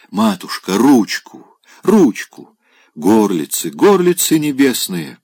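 высоко и громко, умоляюще; выпрашивает ручку, как плаксивый пьяница; пьяная мольба. Acted. Пьяный Опёнкин молит напоследок. (Опёнкин молит бабушку дать ручку)

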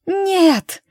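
high, loud anguished scream of no; a sharp shriek of protest; desperate cry. A narrator's reading. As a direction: cry out in terror to stop it. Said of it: "услышал голос Эммы".

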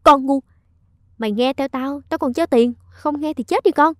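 loud, harsh insult; furious scolding. Acted. Bà Dung berates Minh after slapping her, loud and furious. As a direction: spit the words at her in rage. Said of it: "gương mặt bà giận dữ đáng sợ".

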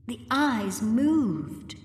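slow, pressing each word; slow insistence. A narrator's reading. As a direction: plead to be believed. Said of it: "Susan insisted".

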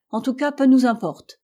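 captain brushing off the American's question; feigned indifference. Acted. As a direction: shrug it off as if bored. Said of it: "l'indifférence affectée du capitaine".

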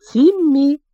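storybook calling-out voice. A narrator's reading. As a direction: call into an empty hole, narrator's restrained shout. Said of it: "Джулиан крикнул в пустоту".

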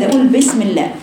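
بسم with a weak, open kasra; wrong kasra. Shown as a demonstration. Teacher imitates students' wrong بسم. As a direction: read بسم carelessly. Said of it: "البعض يقرأ هكذا".

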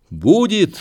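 high, loud frenzied cry; wild, frenzied shout. A narrator's reading. Grandson seizing the gun to end it, wild frenzied shout. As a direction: cry out wildly, pitch leaping up. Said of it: "закричал он диким, исступлённым голосом".

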